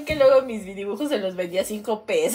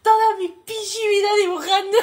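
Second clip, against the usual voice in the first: higher, laughing mock outburst; mock outrage; 9 semitones higher than usual. Daughter complaining she has drawn all her life, hammed-up outrage. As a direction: vent it like a wounded artist. Offended daughter, retold protest.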